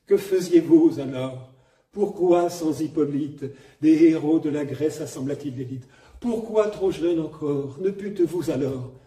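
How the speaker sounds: projected vibrato. Retold or imitated. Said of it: "cette espèce de vibrato contenu".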